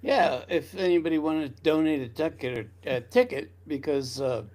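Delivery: sticky dry mouth; talking with a dry, sticky mouth. Real, not acted. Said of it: "sorry, I have dry mouth today".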